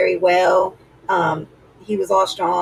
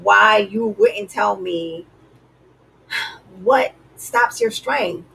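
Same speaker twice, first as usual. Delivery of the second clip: mock crying plea; 2 semitones higher, slower than usual. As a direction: whine it like she's fake-crying to him. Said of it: "Now she's crying".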